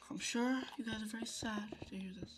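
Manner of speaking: mock sympathy. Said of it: "I don't know why I'm talking like this".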